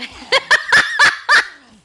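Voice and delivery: very loud burst of laughter. Real, not acted. Streamer laughing at game, loud laugh. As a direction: laugh hard.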